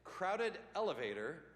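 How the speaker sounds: light mock Chinese-accented proverb; a hint of a mock Chinese accent; deadpan mock Chinese-accented line; mock Confucius accent. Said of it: "I will talk like this".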